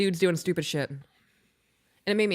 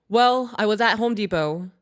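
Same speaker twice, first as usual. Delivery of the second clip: Hispanic serviceman; 3 semitones higher, 5 dB louder than usual. Retold or imitated. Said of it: "there was a Hispanic man".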